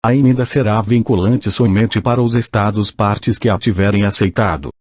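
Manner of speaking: robotic text-to-speech reading; synthetic machine voice reading aloud. Real, not acted. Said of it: "com a utilização de voz sintetizada".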